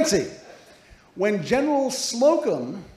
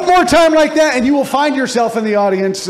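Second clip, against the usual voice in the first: mock stern warning; 7 semitones higher, 10 dB louder than usual. Mock threat at audience blurter.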